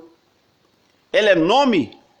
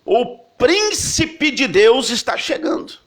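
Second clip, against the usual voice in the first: higher, slow, ringing announcement; herald's proclamation; 6 semitones higher, slower than usual. Retold or imitated. Preacher voicing the crowd announcing the prince of God, slow and high. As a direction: call it out like a royal herald.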